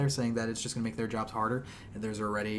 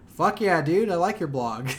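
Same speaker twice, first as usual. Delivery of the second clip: enthusiastic bro; 5 semitones higher, 6 dB louder, slower than usual. Retold or imitated. Imitating E3 staff approving.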